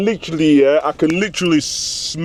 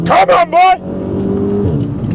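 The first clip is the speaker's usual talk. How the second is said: high, slow drawn-out urging; 9 semitones higher, 3 dB louder, much slower than usual. Real, not acted. Driver urging his car round the bend, drawn out high. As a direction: coax the car on, stretched high.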